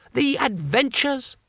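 high, eager little man; chirpy high-pitched foreigner; high tourist voice. A narrator's reading. Two Flower voiced.

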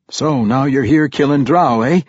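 sharp dwarf question to distract a vampire; said sharply. Acted. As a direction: snap the question to pull his focus. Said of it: "said sharply to distract him".

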